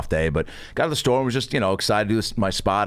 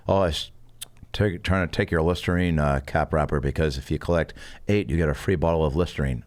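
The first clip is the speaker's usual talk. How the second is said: low, matter-of-fact roommate impression; Blake; 6 semitones lower than usual. Roommate explaining his Listerine scheme, imitated low. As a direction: explain it earnestly in a low, halting voice. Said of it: "He talked like this".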